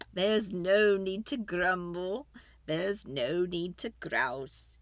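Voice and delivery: put-on slow, measured old man's advice; slow wise old man. Wise old man advising the lady, slow and measured. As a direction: draw it out like a sage.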